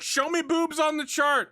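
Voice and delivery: high, slow game show host's call; Steve Harvey. Acted. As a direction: announce it big, stretching it out. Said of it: "as I ham it up".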